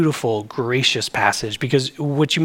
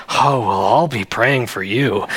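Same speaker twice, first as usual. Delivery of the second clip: falsely gracious, lower, looking down on them; condescending; 5 semitones lower than usual. Retold or imitated. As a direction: feign the high road with a sniff. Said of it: "the condescending, like, feigning taking the high road".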